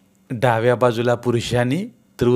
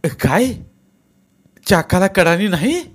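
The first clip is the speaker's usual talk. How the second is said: shrieked; 8 semitones higher, 5 dB louder than usual. A narrator's reading. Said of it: "Mahatma किंचाळलाच".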